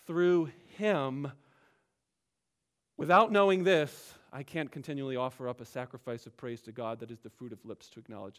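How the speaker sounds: a reverent reading with "Through him" up front; emphatic reading. Shown as a demonstration. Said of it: "you should be reading the sentence like this".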